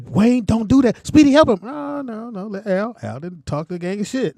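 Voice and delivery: mother pleading. Retold or imitated. Mother voiced in story.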